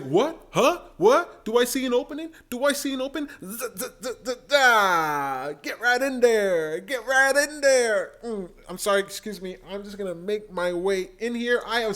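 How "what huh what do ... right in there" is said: high, pitched-up mock Yang spotting an opening; eager Yang impression. Mimicking Yang sizing up a debate opening, eager and high. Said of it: "He's like".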